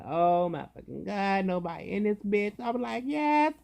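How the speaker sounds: rising, delighted disbelief; thrilled to have the room alone; gleeful. Retold or imitated. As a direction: climb up to a squealed yes.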